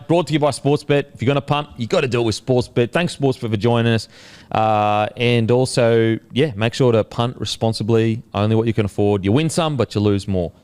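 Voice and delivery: brisk, practised podcast ad read; sponsor read. Real, not acted. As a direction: rattle off the sponsor plug and disclaimer. Reads the sponsor message.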